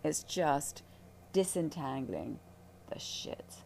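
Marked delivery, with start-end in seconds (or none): 2.9-3.6 whispered. Real, not acted. Whispered end of sentence.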